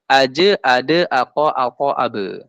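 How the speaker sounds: "Aj, ade, ako, apo, abe" each released with a short echo; bouncing letters. Shown as a demonstration. Teacher shows qalqalah, "Aj, ade, ako, apo, abe" bouncing off the stop. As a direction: stop each consonant, then let it bounce.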